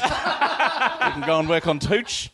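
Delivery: hammed-up stern boss, laughing; mock scolding. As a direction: playfully scold someone. Jones voice scolding.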